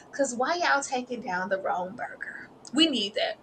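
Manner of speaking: unvoiced whisper. Real, not acted. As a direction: hush it like a secret plea. Pleading aside.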